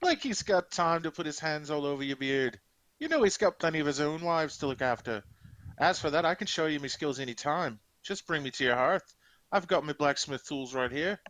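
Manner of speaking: indignant orc with a put-on Scottish burr; horrible Scottish accent. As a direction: argue back in mock Scottish. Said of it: "Competing with my horrible Scottish accent".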